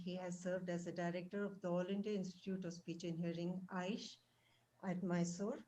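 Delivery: faint, distant voice far from the mic; barely audible. Real, not acted. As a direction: speak very softly, barely reaching. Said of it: "Your, your voice is very low".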